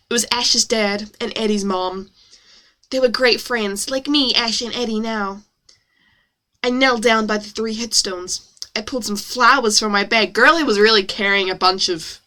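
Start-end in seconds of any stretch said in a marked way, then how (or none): 0.1-10.3 story read in an exaggerated American accent. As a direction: narrate with put-on American vowels. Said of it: "it's exaggerated for effect".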